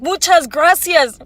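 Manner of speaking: imitating mocking Spanish thanks, slow and loud. Angry customer jeering at the Mexican worker, slow mocking thanks. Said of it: "I guess, racist all of a sudden".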